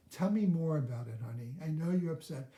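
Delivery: gentle and caring. Shown as a demonstration. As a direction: soothe an upset partner. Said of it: "Speak in a caring voice".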